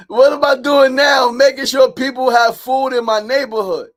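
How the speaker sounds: high, loud proclamation; exuberant shout. Real, not acted. Man proud of feeding his neighborhood, exuberant high shout.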